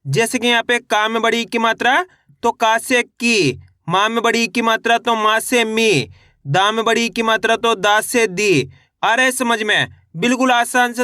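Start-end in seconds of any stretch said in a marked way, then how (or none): 1.5-1.6 "की" stretched on a falling ee; long ee. Shown as a demonstration. Teacher turns ka into kee, drawn-out "की". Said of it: "खींच के पढ़ा जाता है". 5.7-6.1 "मी" with a long, falling ee. Shown as a demonstration. Teacher turns ma into mee, drawn-out "मी". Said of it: "खींच के पढ़ा जाता है". 8.3-8.7 "दी" stretched on a falling ee; long ee. Shown as a demonstration. Teacher turns da into dee, drawn-out "दी". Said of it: "खींच के पढ़ा जाता है".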